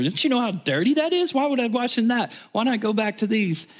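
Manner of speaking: scornful pride. Retold or imitated. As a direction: sneer at the Jordan like a snob. He's just filled with pride.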